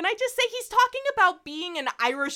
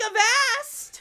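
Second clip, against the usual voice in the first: much higher loud battle cry; pirate cry; 10 semitones higher, 7 dB louder than usual. Retold or imitated. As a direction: shout it like a swashbuckler. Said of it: "and is like".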